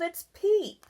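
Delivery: put-on child giggling at father's mistake. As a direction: laugh the word "peep" out. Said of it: "Barry giggled".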